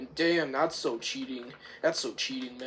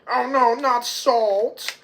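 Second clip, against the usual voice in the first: slow, high, loud cry of dread; mock alarm; 8 semitones higher, 6 dB louder, slower than usual. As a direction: wail it in exaggerated panic. Acted panic in retold film.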